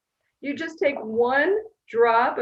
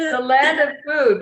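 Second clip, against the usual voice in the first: cartoon chef; 6 semitones higher, 7 dB louder than usual. Stays in playful voice.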